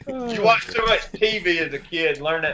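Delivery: laughing ribbing about TV talk; laughing while teasing. Real, not acted. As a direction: chuckle through the teasing jab.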